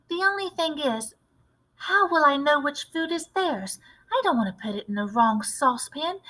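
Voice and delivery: put-on a keen little boy with a clever plan; eager mouse boy. Narrator voices mouse boy.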